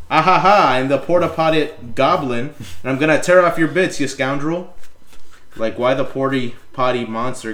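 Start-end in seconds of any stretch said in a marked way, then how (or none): 0.1-4.7 put-on loud goblin in a pirate-Irish accent. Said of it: "got a pirate slash Irish accent".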